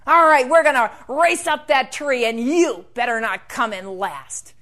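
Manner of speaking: bully. Acted. Bully Dirk after shoving Connor, loudly taunting. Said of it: "And then Dirk would shove him".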